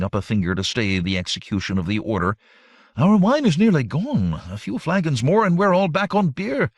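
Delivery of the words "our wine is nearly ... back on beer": high, lifted, pressing objection; exclaiming protest. A narrator's reading. Publius warns the general about supplies, exclaiming. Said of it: "exclaimed Publius".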